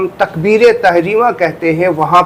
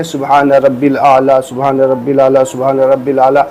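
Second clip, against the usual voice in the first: rushed; 4 semitones lower than usual. Retold or imitated. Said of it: "فٹافٹ کتنی بار پڑھ لیتے ہیں".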